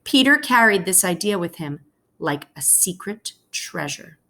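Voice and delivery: expressive storybook read-aloud for a class; reading to children. Acted. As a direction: read it like a teacher sharing a picture book with kids. Teacher reads picture book aloud.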